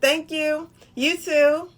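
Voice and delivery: said with a smile behind it; light smiling thank-you to a stranger. Shown as a demonstration. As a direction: let the smile be heard in these words. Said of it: "put a smile behind it".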